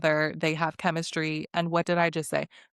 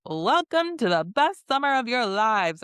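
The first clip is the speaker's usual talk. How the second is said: mock host welcome; 4 semitones higher than usual. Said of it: "Ariana's like".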